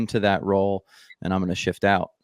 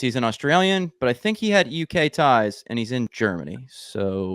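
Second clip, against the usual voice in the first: higher, puzzled voice of a guessing American; confused American; 3 semitones higher than usual. Retold or imitated. Host imitating a confused American guessing the guest's origin, higher and puzzled. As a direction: play a baffled listener trying to place an accent. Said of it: "Everyone will just be confused".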